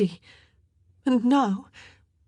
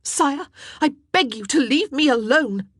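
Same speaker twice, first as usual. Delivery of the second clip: high, loud outburst at the king; flaring up; 10 semitones higher, 6 dB louder than usual. A narrator's reading. Queen snapping at the king, high and loud. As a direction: let her patience snap. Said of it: "she flared".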